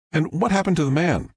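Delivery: upbeat live news report voice; TV reporter. Acted. Reporter Fox addresses the camera in a live news voice. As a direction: deliver it like a reporter live on air.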